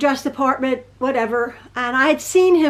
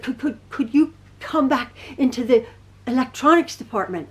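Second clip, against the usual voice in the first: nervous stutter. Retold or imitated. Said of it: "when he gets nervous, he stutters very bad".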